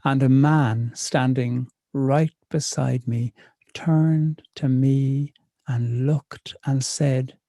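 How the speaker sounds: slow, deliberate spoken-word storytelling; poem reading. Acted. Poet reading her pub poem to the audience, slow and deliberate. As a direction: read it to the room, savouring the lines. Reads poem Enjoy your pint.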